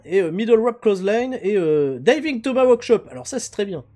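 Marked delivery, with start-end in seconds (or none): 0.3-3.1 English move names, heavily French in accent. Real, not acted. Streamer reading his card pack to viewers, French-accented English. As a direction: list them louder in French-accented English. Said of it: "vous appréciez mon accent anglais".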